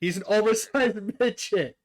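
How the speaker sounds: can't help laughing mid-sentence. Real, not acted. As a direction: repeat it through laughter. Cracks up repeating friend's joke.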